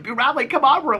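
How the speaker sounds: high sing-song call to the dog. Retold or imitated. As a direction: call him in from the yard, pitched high. Calling the dog in.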